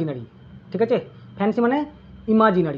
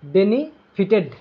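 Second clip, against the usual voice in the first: বেনিফিটেড said very slowly, syllable by syllable; slow down বেনিফিটেড for the class to copy; slow repeat; much slower than usual. Shown as a demonstration. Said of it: "বোঝা গেল?".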